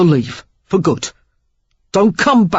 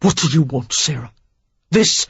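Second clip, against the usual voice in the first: taunting. Acted. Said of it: "He taunted her".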